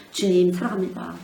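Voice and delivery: 주님 사랑합니다 called out loud; loud declaration. Shown as a demonstration. Preacher leads the congregation in a loud confession of love. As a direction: proclaim 주님 사랑합니다 with force. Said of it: "계속하세요".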